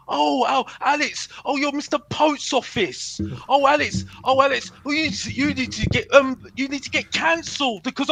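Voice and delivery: sing-song mocking voice of his critics. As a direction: mimic the naysayers with a sneer. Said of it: "the masses were telling me".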